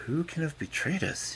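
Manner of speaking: high, soft puzzled king; musing under his breath; to himself. A narrator's reading.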